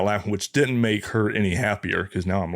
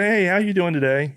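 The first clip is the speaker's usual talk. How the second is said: higher-pitched, friendly hiker's hello; friendly greeting; 8 semitones higher than usual. Retold or imitated. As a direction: greet a passing stranger, trying to be nice. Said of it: "trying to be nice".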